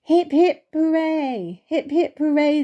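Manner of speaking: high, loud hip hip hooray cheer; group cheer. Acted. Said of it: "they all cheered".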